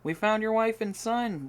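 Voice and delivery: loud, high call, slow at first. Acted. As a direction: call across the courtyard to Reinhard. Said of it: "Jacob called out".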